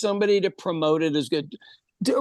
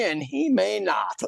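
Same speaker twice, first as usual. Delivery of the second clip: whispered; slower than usual. Real, not acted. Aside on misspelled names.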